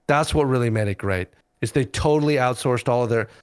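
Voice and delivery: deadpan mock praise, plainly voiced; sarcastic. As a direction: say it straight-faced, meaning the opposite. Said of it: "I'm being very sarcastic here".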